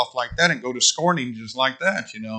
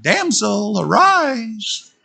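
alarm call; 9 semitones higher, slower than usual. Pretend. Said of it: "every morning when the alarm goes off".

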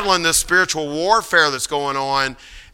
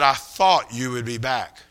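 Muhammad Ali; 3 semitones lower, 4 dB quieter, slower than usual. Retold or imitated. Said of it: "And he said".

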